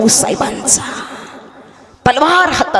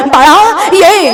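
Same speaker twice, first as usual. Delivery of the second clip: raised, pleading fatherly call; yearning call; 6 semitones higher, much slower than usual. A narrator's reading. Father longing for his daughter calls her over, yearning. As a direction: call the child into your arms.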